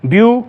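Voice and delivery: "ब्यू" held alone as the first syllable; isolated syllable. Shown as a demonstration. Teacher splitting beautiful for students, "ब्यू" isolated. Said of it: "ब्यूटीफुल में तीन syllable".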